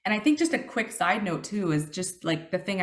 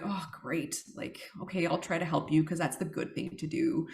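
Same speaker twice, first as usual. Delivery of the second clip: grudging sarcasm; 3 semitones lower, 6 dB quieter than usual. Retold or imitated. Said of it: "it's not so beautiful in my mind".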